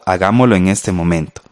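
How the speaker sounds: normal talking voice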